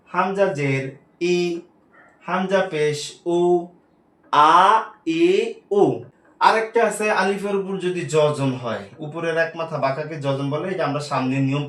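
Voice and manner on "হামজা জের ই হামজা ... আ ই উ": "হামজা জের ই, হামজা পেশ উ" then আ, ই, উ each short; short vowel drill. Shown as a demonstration. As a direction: tick off আ, ই, উ crisp and short. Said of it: "বলতে হবে". (আ, ই, উ ছোট ছোট করে পড়া)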